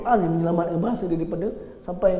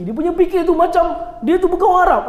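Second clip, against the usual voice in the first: loud amused aside; 9 semitones higher, 6 dB louder than usual. Real, not acted. Mocking the Arab's confused thinking.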